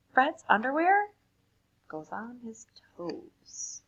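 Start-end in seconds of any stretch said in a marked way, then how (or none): 1.9-3.8 slow, much softer ending; slow quiet reveal; slow punchline. Acted. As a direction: drag out the last words. Punchline slowed down.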